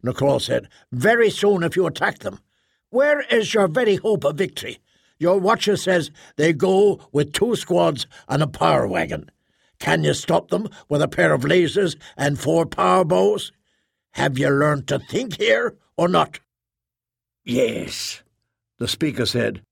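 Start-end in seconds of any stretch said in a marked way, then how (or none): 0.9-16.4 lightly voiced, insistent challenge; urgent trader arguing. Trader warns the speaker against attacking, mildly urgent challenge. 17.4-18.2 a touch of menace; bared-teeth bitterness. A narrator's reading. Bitter speaker concedes to the trader, teeth bared. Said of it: "bared her teeth at him".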